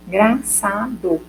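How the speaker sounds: "engraçado" slowly measured out in syllables; poetic syllable count. Shown as a demonstration. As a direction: count out "gra-ça-do" slowly, evenly. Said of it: "quando eu separo a mesma frase".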